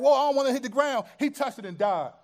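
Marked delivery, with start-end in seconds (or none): 0.0-1.1 quick, raised, louder exclamation; acted-out startled "whoa"; alarmed reaction. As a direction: blurt it out as if lunging to catch something. Acting out man catching falling Ark.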